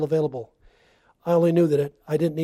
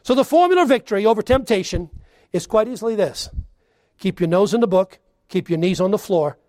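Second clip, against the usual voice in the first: loud, raised preaching; 3 semitones higher, 4 dB louder than usual. Acted. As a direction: hammer the point home. Preaching climax.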